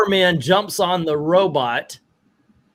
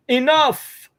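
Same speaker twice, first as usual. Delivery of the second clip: high, drawn-out imitated yell; mock yell; 10 semitones higher than usual. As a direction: act out an exasperated yell, pitched way up. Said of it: "he's just yelling".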